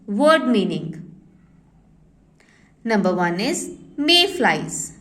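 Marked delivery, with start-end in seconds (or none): 2.8-5.0 slow dictation. Shown as a demonstration. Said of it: "dictating word meanings".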